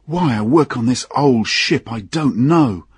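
lightly played drunk complaining about work; drunken engineer. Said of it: "did not seem able to speak clearly".

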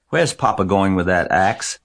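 lightly voiced young girl, curious; a child asking her mother at breakfast; girl asking mother about the axe, lightly childlike; little girl voice. A narrator's reading. Child Fern asks mother.

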